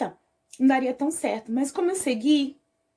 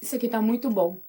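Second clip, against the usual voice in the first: talking with a mouth full; 4 semitones lower, 4 dB quieter, faster than usual. Real, not acted. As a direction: speak around a bite of cake. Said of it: "Não podemos falar de boca cheia".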